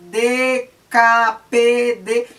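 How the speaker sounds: each consonant D K P D said slowly, nasal build-up then burst; demonstrating consonant bursts one by one; slow plosive demo. Shown as a demonstration. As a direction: spell out the stops slowly and crisply. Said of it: "Saem de uma explosão".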